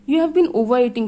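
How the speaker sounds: stern matron snapping at a pupil; snapped. Acted. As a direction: bite the words off, scolding. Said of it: "she snapped".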